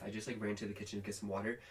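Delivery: winded and talking fast; catching breath mid-sentence. Real, not acted. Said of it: "I'm, like, out of breath".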